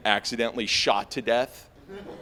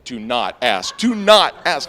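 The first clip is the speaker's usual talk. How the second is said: warning inner voice; 11 dB louder, slower than usual. Retold or imitated. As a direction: shout yourself down. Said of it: "it's like".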